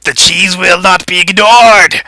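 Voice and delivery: loud, high-pitched proclamation; high, loud cartoon indignation; indignant cheese outcry. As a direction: announce it as an outraged living cheese. Game master voices the rebelling cheese.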